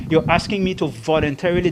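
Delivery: "voluntarily" repeated with deliberate emphasis; stress on voluntarily. Real, not acted. Lawyer restating the request pointedly, stress on "voluntarily". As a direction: make "voluntarily" the key word. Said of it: "I want to emphasize that word".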